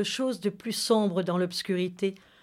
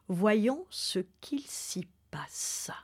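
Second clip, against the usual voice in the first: whisper; 6 dB quieter, slower than usual. Acted. Host whispering into the story.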